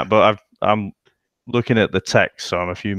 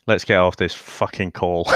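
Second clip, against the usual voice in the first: laughing; 9 semitones higher than usual. Real, not acted. Joking outburst as goal goes in.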